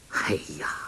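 whispered, forced little laugh. A narrator's reading. Yang Kang nervously brushing off the ghost talk, forced whispered laugh. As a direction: cover his unease with a breathy laugh. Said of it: "杨康强笑道".

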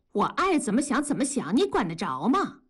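mild brush-off; impatient. Acted. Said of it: "文丽不耐烦了". (不耐烦地)

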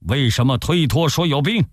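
a general's outrage building to a demand; Ma Teng venting fury at being turned away, angry; furious complaint. A narrator's reading. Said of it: "马腾大怒说".

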